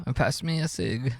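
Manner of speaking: soft mock-British request; playful British bloke asking a favour; British accent. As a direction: casually put on a London accent. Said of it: "a British accent".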